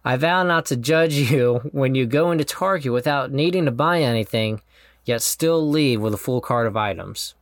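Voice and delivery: sincere, measured vow reading; heartfelt vow reading. Real, not acted. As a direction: read the vows with tender sincerity. Reads his wedding vows aloud.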